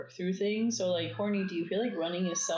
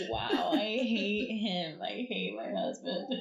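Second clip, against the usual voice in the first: higher-pitched mock exclamation; mock outburst; 4 semitones higher, slower than usual. Host mimicking what people say about husbands, mock outburst. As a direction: imitate an exaggerated complaint about a spouse.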